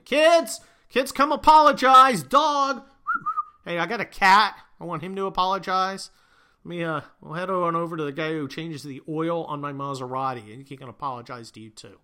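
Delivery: hammed-up panicked apologizer calling everyone in; mock groveling apology. Scene: apologizing athlete calls his kids to say sorry, frantic and loud.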